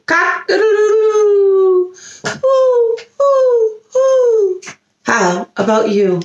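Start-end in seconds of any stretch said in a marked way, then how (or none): 0.1-1.9 high stretched-out rooster call; rooster crow. Pretend. Rooster again. 2.2-4.6 high hooting owl. Pretend. Owl again.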